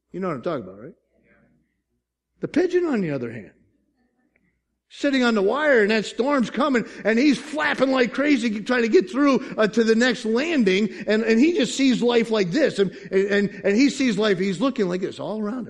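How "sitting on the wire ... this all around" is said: animated, raised storytelling from the pulpit; fervent preaching. Real, not acted. Pastor picturing the pigeon in a storm, animated preaching. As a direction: tumble along with high energy.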